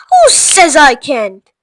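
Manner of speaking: high, loud bratty tantrum shout; spoilt shout. Acted. Veruca shouts at her mother, bratty tantrum. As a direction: rattle the pets off in a spoilt rage. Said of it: "shouted Veruca".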